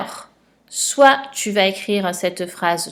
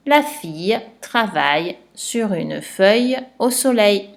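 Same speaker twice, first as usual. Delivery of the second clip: phrase lue lentement, mot par mot; détache chaque mot pour qu'on les compte; dictée posée. Shown as a demonstration. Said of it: "je redis la phrase et tu comptes les mots". (lecture de dictée, bien articulée)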